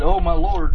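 "Lord" given special weight in the quote; emphasis on LORD. Retold or imitated. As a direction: lean on "Lord" as a title of honour. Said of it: "special value on the word Lord now".

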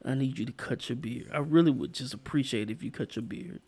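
demonstrating a tender, earnest request; heartfelt conviction. Shown as a demonstration. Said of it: "say it with all conviction".

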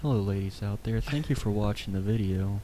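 attempted seductive DJ voice; smooth, sexy voice. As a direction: try sweet-talking the ladies, understated. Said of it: "I wanna try it".

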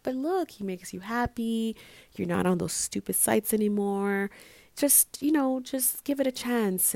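coaxing. Retold or imitated. Retelling advice to a doubting friend, coaxing. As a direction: gently talk a friend round.

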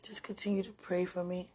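breathy whispered plea. Real, not acted. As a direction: whisper it, barely holding on.

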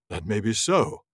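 a touch of a haughty wizard, slowed down; lightly voiced Saruman. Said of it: "a Saruman voice here".

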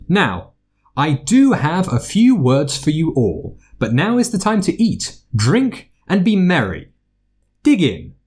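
lightly voiced festive headmaster; jovial headmaster. A narrator's reading. Headmaster's feast speech.

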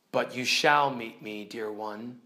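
soft, tender lion's reply; quiet storybook reassurance; reassuring. Acted. Aslan comforting Lucy.

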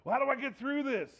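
hammed-up fretting, tumbling words; exasperated fretting. A parent at the end of their rope, fretting aloud. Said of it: "You're like".

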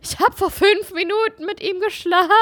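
high, chirpy phone call to dad; daughter on phone. Retold or imitated. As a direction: play the daughter calling from the bathroom. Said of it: "Ich bin grad im Bad, kann nicht so laut reden".

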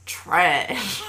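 "Trash" tried out with relish, near laughter; savoured word. Shown as a demonstration. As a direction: throw out "Trash" to test how satisfying it feels. Trying both words for satisfaction.

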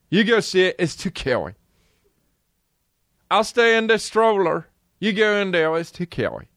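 put-on high babyish refusal, mangled words; mock little kid. Kid sends mom in without him, babyish whine. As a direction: whine like a toddler staying put. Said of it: "If I was a kid".

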